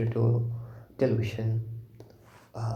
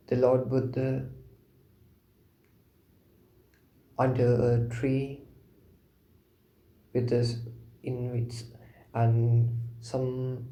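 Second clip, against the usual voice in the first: unhurried, with long pauses between short phrases; guided meditation. Real, not acted. Teacher guiding listeners to contemplate Lord Buddha, meditative.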